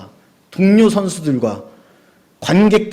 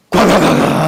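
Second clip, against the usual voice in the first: 천천히 크게 내는 과과과 소리; 불이 타오르는 소리를 흉내 내듯; 불타는 소리 흉내; 3 semitones higher, 5 dB louder, slower than usual. Retold or imitated. (불이 확 붙는 소리를 크게 흉내 내는 설교자)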